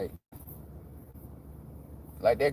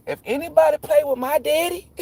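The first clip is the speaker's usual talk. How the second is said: put-on wrong kid voice; 13 semitones higher than usual. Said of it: "nah, she don't talk like that".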